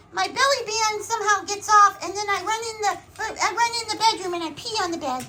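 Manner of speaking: playful pet voice with a laugh; sheepish put-on dog voice.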